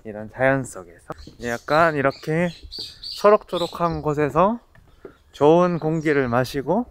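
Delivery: muffled behind mask; through a face mask. Real, not acted. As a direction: mouth covered by cloth. Seen 4: Black mask covers his nose and mouth in every labelled frame.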